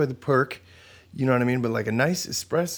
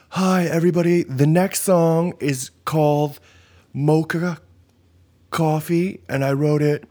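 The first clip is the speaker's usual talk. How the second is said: slightly hammed-up polite song intro, pitched up; timid stage introduction; 5 semitones higher than usual. Musician introducing a song nobody listens to, mock polite stage voice. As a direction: introduce your song politely, haltingly, to a crowd. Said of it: "trying to talk to a crowd".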